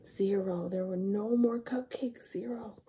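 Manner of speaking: soft whispered zero; sad whisper. Acted. Reader whispering the empty count to children. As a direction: let it fall away quietly. All cupcakes gone.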